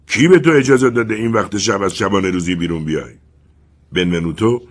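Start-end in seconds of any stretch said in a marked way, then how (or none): 0.1-3.1 shouting uncle. Acted. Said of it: "داد زد".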